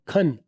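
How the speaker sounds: खन, can said short and light; "खन" clipped and quick; reduced can, kept brief. Shown as a demonstration. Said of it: "reduction की आवाज़ short होगी".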